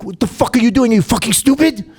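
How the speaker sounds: high-pitched imitated berating; mock outrage. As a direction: mimic an angry star telling someone off. Retold angry confrontation by a DJ.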